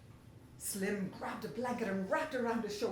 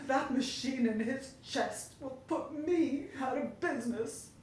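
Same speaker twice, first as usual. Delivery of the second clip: a baker sobbing over his pies, louder and louder; 5 semitones higher, 6 dB louder than usual. Acted. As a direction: break down by the end. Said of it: "He let out a sob".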